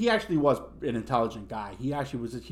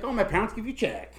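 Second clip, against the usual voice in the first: mock Vietnamese accent; 8 semitones higher than usual. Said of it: "faking the Vietnamese accent".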